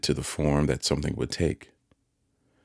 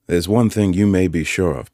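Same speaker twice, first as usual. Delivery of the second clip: Joe's counsel; 4 semitones higher, 7 dB louder than usual. A narrator's reading. Joe counselling Pip.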